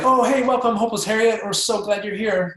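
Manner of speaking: high, bright-eyed greeting; overly upbeat welcome. Shown as a demonstration. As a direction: gush a cheery hello, too much. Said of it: "that's not the energy".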